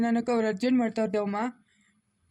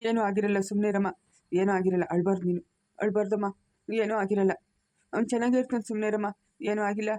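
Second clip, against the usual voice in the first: low, repeated comforting of someone crying; reassuring; 3 semitones lower than usual. Acted. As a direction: hush her and promise all is fine. Grandfather reassures crying wife.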